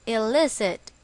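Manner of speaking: "illicit" stressed on the middle syllable, LIS; stress on second syllable. Shown as a demonstration. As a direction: say "illicit" as a model word, punching LIS. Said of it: "The stress is on the second syllable".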